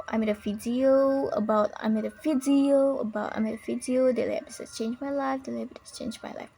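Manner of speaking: imitated YouTuber stress on VIDEO; emphasized important words. Teacher showing a YouTuber's style, stressed VIDEO. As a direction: lean on VIDEO as a YouTuber would. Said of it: "really makes an effort to sound".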